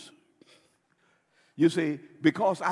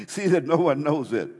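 louder warning; 6 dB louder than usual. Retold or imitated. Warning repeated with more force.

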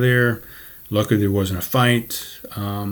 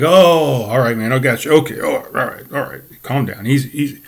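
guy backing off; 3 semitones higher than usual. Retold or imitated. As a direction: play the drunk raising his hands, easy, easy. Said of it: "So he's like".

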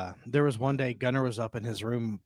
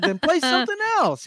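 dad exasperated; 4 dB louder than usual. Retold or imitated. Dad answering son.

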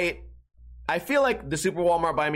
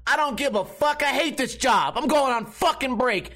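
higher, fed-up rant; mock angry worker; 8 semitones higher than usual. Walmart employee snapping about going on break, higher fed-up rant. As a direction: spit it out like a worker who hates the job.

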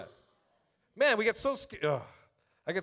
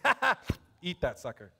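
mocking defiance. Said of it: "you just gotta take 'em and say".

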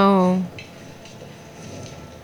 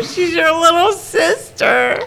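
shouting; 5 semitones higher than usual. Real, not acted. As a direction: yell it at the screen. Cheering on the fight.

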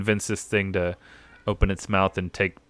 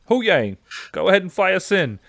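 voicing the whale creature; 10 semitones higher, 5 dB louder than usual. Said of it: "it's like".

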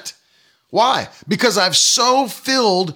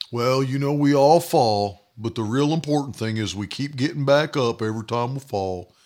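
mocking excuse-maker; 6 semitones lower, 4 dB quieter than usual. Preacher parodying people who excuse falling, mocking. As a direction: parody a resigned platitude in a lowered voice. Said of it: "It's stupid".

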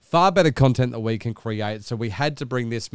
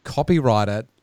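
lightly hammed-up grand self-importance; a hint of lofty arrogance, dragged out; mock pompous inner voice. Friend mocking his mate's grand copyright notice, pompous. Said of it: "were you thinking".

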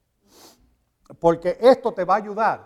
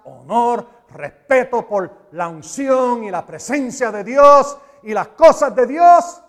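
reassuring; 3 dB louder, slower than usual. Retold or imitated. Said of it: "el Señor le dijo".

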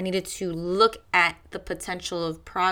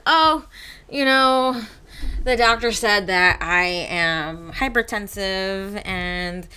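mocking excuse voice; 4 dB louder than usual. Mocking a lazy person who ignores the doctor, whiny excuse voice. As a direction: parody someone making excuses to the doctor. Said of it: "You can't just be like".

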